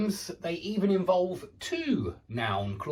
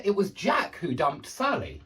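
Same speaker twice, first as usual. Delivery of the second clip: emphasis placed squarely on "Jack"; stress on Jack. Shown as a demonstration. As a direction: lean on "Jack", let the rest drop. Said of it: "you put emphasis on that part".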